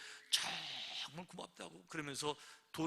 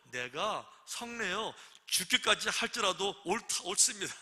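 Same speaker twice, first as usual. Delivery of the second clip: angry retort; 3 semitones higher, 4 dB louder, slower than usual. Retold or imitated. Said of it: "요나가 화가 막 났어요".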